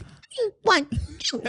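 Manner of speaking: put-on a high, slow, sugary toddler voice that is still rude. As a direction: sweeten it with a high voice but keep the demand. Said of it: "pitched her voice up. So it sounded sweeter".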